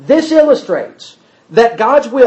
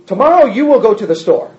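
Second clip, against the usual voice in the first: firm, quicker order, told as what will happen; commanding future; faster than usual. Shown as a demonstration. Teacher demos the future used as a command. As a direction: say it as a command, not a forecast. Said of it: "It's a little bit different from".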